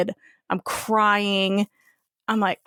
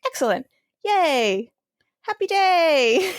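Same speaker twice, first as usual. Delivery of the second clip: sarcastic high "Happy day" breaking into laughter; mock cheer; 7 semitones higher, slower than usual. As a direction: ham up fake joy, laughing through it. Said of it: "I was like".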